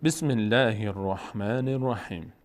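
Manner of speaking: measured Arabic recitation; Quran recitation. Shown as a demonstration. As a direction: recite the opening formula carefully, drawing out the basmala. (تلاوت شمرده قرآن)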